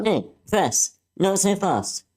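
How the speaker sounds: high defiant call across the fight. Acted. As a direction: call him off from a distance. Anne calls out to villain.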